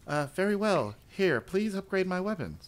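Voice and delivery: white guy voice. Retold or imitated. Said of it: "a white guy with a giant, deep voice".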